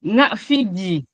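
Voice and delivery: "Nga fi gi" said slowly with a clear rising tone; rising tone demo. Shown as a demonstration. Teacher showing the rising tone on "Nga fi gi". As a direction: draw the rising tone out over "Nga fi gi". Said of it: "Le ton montant".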